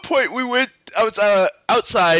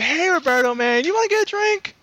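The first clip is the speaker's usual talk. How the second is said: put-on drunken call across the room; 11 semitones higher than usual. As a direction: shout it across the room like a drunk pal begging for company. Calling out to Roberto again.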